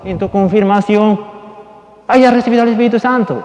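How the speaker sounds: insistent preacher, pitch lifted; forceful preaching. Real, not acted. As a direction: drive the message home to the congregation.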